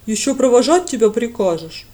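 outraged at being asked; indignant. Acted. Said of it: "возмутился Джай".

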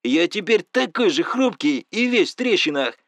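loud, high furious rant down the phone; shouting complaints at the friend whose father beat him, loud and angry; angry yelling. Acted. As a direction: let it all out, he's in pain and livid. Friend with broken ribs yells.

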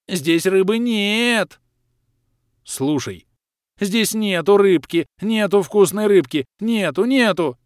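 high, loud, slow frightened creature shriek; frightened swamp creature squealing; terrified squeal. Acted. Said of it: "От перепуганного визга Лохра".

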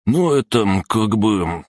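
high start, dragging hesitation; mumbled hemming. A narrator's reading. Third goon caught without excuse, mumbling haltingly. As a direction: hem and haw slowly, falling from high pitch. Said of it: "замямлил третий".

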